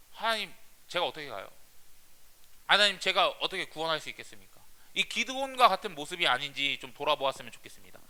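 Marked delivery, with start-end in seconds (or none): 0.1-4.6 whiny Gideon. Retold or imitated. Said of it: "여전히 기드온처럼".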